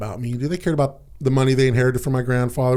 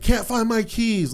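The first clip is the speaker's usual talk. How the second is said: higher, slower, exasperated 'Can't find my keys'; frustrated call; 9 semitones higher, slower than usual. Retold or imitated. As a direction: call it out from the bedroom, fed up. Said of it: "I got frustrated ... like that".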